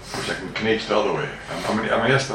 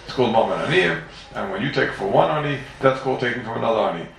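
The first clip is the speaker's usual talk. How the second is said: mock answer in a raised voice; voicing the answer; 2 semitones higher than usual. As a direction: play the one who answers the kasha. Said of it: "you can answer and say".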